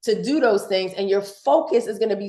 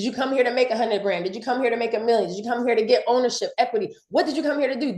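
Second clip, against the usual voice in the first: talking fast excitedly; faster than usual. Real, not acted. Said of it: "I talk very fast when I get excited".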